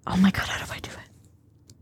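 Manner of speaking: whispered aside; whispering. Real, not acted. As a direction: whisper it to yourself.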